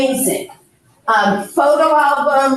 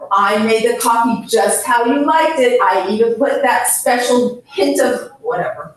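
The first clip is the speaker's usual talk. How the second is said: coaxing. Retold or imitated. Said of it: "Instead, you say".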